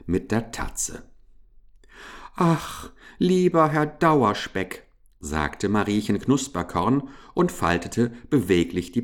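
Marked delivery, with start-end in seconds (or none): 2.4-4.9 high, imploring little voice; pleading mouse. A narrator's reading. Mouse appealing to Herr Dauerspeck, imploring.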